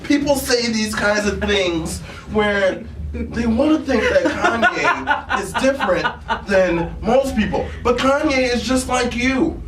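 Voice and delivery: impression of a famous rapper. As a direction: play the rapper calmly bragging, half laughing. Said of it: "My name is Kanye West".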